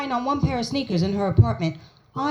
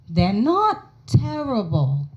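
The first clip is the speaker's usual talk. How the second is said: grudging; slower than usual. Retold or imitated. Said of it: "it killed her to say this".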